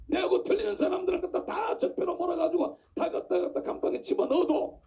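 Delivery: impassioned preacher pressing the point; forceful preaching. Acted. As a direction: drive the warning home to the congregation.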